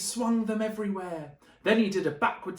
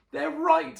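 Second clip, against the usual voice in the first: dejected; 10 semitones higher, 7 dB louder than usual. Acted. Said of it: "he thought".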